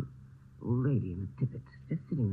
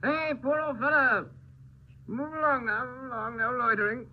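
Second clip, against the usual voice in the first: put-on drunk; 5 semitones higher than usual. Drunk man accosting a stranger.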